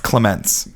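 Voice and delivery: "Clements" with the weight on MENTS; stress on last syllable. Shown as a demonstration. Host correcting listeners on the co-host's name, "Clements" stressed on its last syllable. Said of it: "emphasis in the last part".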